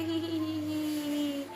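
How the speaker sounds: light mock giggle, "ही ही ही" said as short giggle bursts; imitating dad's giggle. Daughter mimicking dad giggling while sliding, light mock giggle. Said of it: "पापा हंसते लग रहे".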